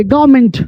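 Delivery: "गवर्नमेंट" shortened to GAAV-ment, R dropped; silent R. Shown as a demonstration. English teacher models the corrected word for learners, silent R. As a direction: say "गवर्नमेंट" with no R sound. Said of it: "तो आर silent हो गया".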